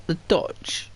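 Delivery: breathy half-whisper; hushed aside about the Dutch. Real, not acted. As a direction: drop to a whisper.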